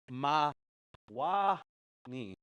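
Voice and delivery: Ma, wa, ni in separate syllables with wa leaned on; stress on wa. Shown as a demonstration. Teacher breaks Mawani into syllables for students, stressing wa. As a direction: split the word and lean on wa. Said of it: "when you hear this wa part, emphasize yourself".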